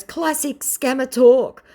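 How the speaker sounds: high, loud sassy retort; mock viewer voice. Vlogger voicing the viewer's retort, high and loud. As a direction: fire it back high and loud. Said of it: "she goes".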